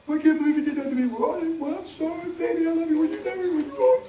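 mock lovers' quarrel. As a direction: imitate a hurt couple making up, voice kept small. Imitates a couple's tearful make-up quarrel.

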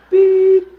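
loud, high "beep" with a laugh; a son stunned by his dad's prayer, loud and high; shocked yell. Retold or imitated. The son's shocked reaction retold.

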